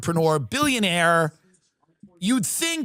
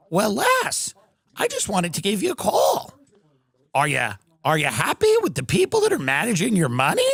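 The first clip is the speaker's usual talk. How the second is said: Epstein voice. Acted. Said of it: "childlike voice".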